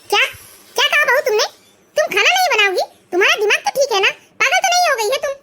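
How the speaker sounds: furious disbelief at the daughter-in-law; mother-in-law scolding her defiant daughter-in-law, outraged. Acted.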